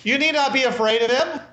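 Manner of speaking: calm the crowd about his weapons; reassuring woman. Acted. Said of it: "she says".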